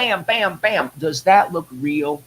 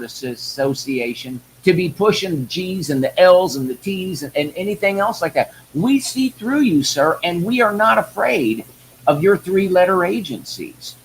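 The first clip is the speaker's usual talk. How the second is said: raised, impassioned rant at a high pitch; 3 semitones higher than usual. Real, not acted. Addressing Merrick Garland in a raised, furious rant. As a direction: hammer him with rising outrage. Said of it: "folks, I rant".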